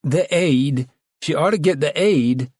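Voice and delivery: bursting out. A narrator's reading. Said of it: "Ella Summers burst out".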